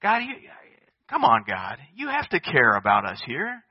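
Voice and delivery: acting out an exasperated appeal to God; mock-exasperated prophet's complaint; pleading protest.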